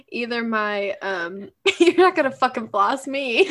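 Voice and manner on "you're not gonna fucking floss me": loud, stressed on not; loud mock outburst. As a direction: hit the word not hard. Quoting favorite line.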